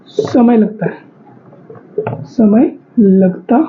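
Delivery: समय लगता है spoken very slowly, word by word; slow dictation pace. Shown as a demonstration. Teacher dictating the note to the class, very slow. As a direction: spell it out slowly so students can write. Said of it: "दुगुना समय लगता है".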